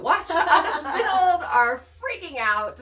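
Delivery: joking at your own expense, laughing loudly; laughing while talking. Real, not acted. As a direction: laugh through the words, high and loud. Joking about contractors watching them build.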